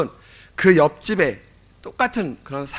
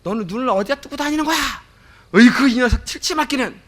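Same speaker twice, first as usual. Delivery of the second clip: hammed-up father's outburst over a broken cup; imitating an angry father; 6 semitones higher than usual. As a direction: scold the kid like an exasperated dad. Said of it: "버럭 화를 냅니다".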